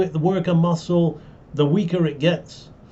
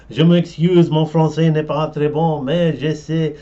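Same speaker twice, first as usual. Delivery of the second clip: English speaker's pidgin French; halting English-accented French; foreign accent in French; 4 dB louder than usual. Retold or imitated. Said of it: "my pidgin French".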